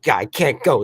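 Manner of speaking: a touch of real irritation; frustrated quote. Retold or imitated. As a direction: huff it out, frustrated. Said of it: "He's like".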